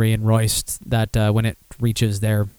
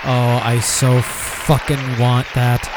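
slow eager craving; much slower than usual. Real, not acted. Craving the Guinness coffee.

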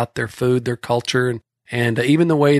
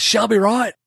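high, run-together 'Shelby Wright'; quick New Zealand slur; fast New Zealand accent; 9 semitones higher than usual. Retold or imitated. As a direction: slur 'she'll be right' into one quick name. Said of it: "they said it so darn fast".

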